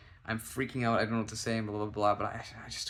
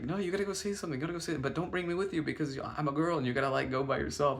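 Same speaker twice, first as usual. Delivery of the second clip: higher-pitched imitation of a pushy friend; lightly voiced insistent friend; 4 semitones higher, faster than usual. Friend pushing him to go alone, lightly imitated.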